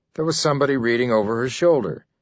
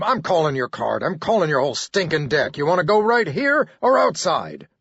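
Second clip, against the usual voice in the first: challenging to fight; 4 semitones higher than usual. Acted. Narrator challenges Buchner.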